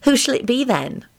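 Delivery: coy, mildly challenging question; provocative. A narrator's reading. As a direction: ask it as a dare. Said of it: "she said provocatively".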